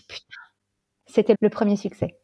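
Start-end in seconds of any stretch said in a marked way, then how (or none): 0.0-0.4 a whispered "putain" in awe; whispering her emotion to the host; awed whisper. Real, not acted. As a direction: breathe it out, overwhelmed. Reliving the first success.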